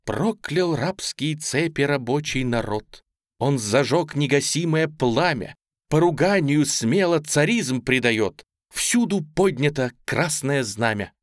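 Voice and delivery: slow, solemn verse declamation; inspired recitation. A narrator's reading. Girl reciting revolutionary verse to her aunt, inspired. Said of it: "вдохновенно произнесла".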